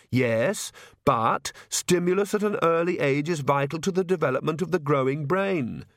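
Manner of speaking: lightly voiced queen justifying herself; earnest new mother. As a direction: recite the parenting theory primly.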